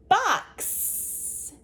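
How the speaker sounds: box? whispered high, x hissed; whispered box? to show the x sound; whispered word. Shown as a demonstration. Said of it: "You can hear the x sound".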